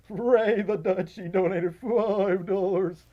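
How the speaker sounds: slow, loud, wobbling announcement; exaggerated vibrato. Shown as a demonstration. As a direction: draw it out with a hammed-up vibrato. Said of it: "vibrato going for a second".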